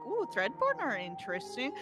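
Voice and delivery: mildly piqued interest, retold; retold intrigue. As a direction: react as if discovering something curious. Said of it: "I was like".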